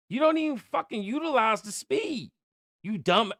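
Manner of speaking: angry rant. Real, not acted. Ranting at the team.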